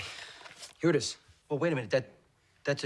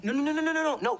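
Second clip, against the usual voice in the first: high, louder burst of no's; hasty protest; 10 semitones higher, 5 dB louder, faster than usual. Acted. Groom refuses to postpone the wedding, urgent protest. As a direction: fend off the idea with urgent repeated no's.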